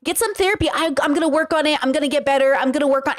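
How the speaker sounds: high, breezy, brushing it off; a light singsong okay girl, then mocking promises; mock dismissive friend. Creator mimics a woman waving off a man's excuses, high and breezy. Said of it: "And you go".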